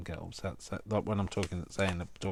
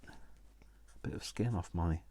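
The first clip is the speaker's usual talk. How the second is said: hushed whisper; 6 dB quieter than usual. Real, not acted. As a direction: whisper it under your breath. Hurt hand, hushed check.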